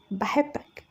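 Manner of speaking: soft voiced repeat of بحبك, rising at the end. Repeating her confession when he asks, soft and shy. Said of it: "قلت إيه؟".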